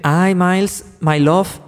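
imitated Latina mother's accent in English; mock Latina mother accent. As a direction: put on a Spanish-accented English greeting. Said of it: "Le hacen acento y dice".

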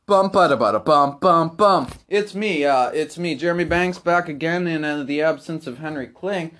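belted, loud show jingle. Acted. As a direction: announce it at full volume. Host sings jingle, then loud intro.

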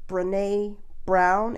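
"Brené" said slowly, like Renee with a B; name pronunciation shown. Shown as a demonstration. Host introduces a speaker to listeners, "Brené" pronounced slowly like Renee. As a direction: stretch out "Brené", rhyming with Renee. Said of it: "It's like Renee with a B".

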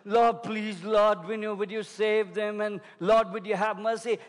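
monotone, droning plea, imitating timid prayer; mock moaning prayer. Preacher mimics how people pray for others, moaning. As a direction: plead in a level, run-on mock moan. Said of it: "You only moaned".

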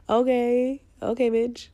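high laughing brush-off; laughing sass. Real, not acted. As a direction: laugh it off with attitude. Laughing dismissal of critics.

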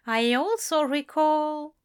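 a hint of a fussy, fond angel; Aziraphale voice. A narrator's reading.

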